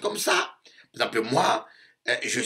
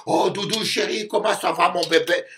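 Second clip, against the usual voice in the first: higher cooing a hint of a doting lover; mock sweet partner; 6 semitones higher than usual. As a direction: coo it like a lovesick spouse. Imitating cooing romantic partner.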